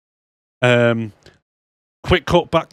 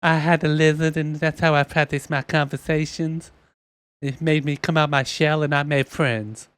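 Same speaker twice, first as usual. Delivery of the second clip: a lightly voiced, higher cartoon guy; Bruce from Family Guy; 3 semitones higher than usual. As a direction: keep it high and gentle, slowing at the end. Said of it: "He talks like Bruce off, uh, Family Guy".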